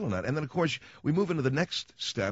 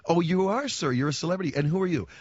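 higher, sarcastic hostess voice; mock unimpressed hostess; 6 semitones higher, 3 dB louder than usual. Outback hostess mocking the self-declared celebrity, sarcastic. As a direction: play the hostess humoring a nobody. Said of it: "hostess voiced in retold call".

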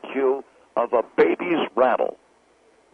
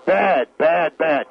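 talk-radio rant demo; slower than usual. Shown as a demonstration. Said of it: "You could do that, Phil".

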